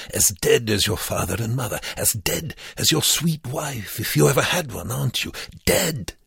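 put-on high, mounting accented taunt; goading. A narrator's reading. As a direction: jab at him until he reacts. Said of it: "goaded Wernicke".

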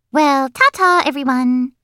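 high, airy schoolgirl farewell; high sing-out goodbye; breezy show-off girl. Acted. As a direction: dismiss them grandly.

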